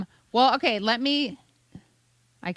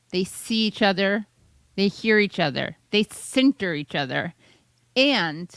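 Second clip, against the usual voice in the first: halting mock political answer; lightly parodied careful politician with long pauses; imitated politician. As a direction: mimic a politician groping for safe words. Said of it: "then she has this funny".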